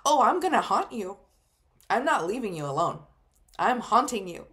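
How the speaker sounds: playful mock-spooky grandma threat; funny teasing way. Grandma joking to her grandchild, playful mock-spooky. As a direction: tease like a cheeky ghost. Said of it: "saying it in a funny way".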